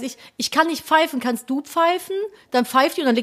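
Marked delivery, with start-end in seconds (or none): 0.4-2.2 high childish cartoon voice; cartoon lamb voice. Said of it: "und sagt dann so".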